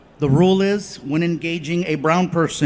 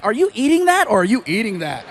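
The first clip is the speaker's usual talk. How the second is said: put-on teasing girlfriend.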